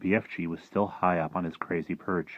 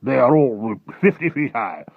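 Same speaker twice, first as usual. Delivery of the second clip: loud, raised-pitch objection; protesting military men; 5 semitones higher, 9 dB louder than usual. Acted. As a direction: object loudly as an alarmed officer.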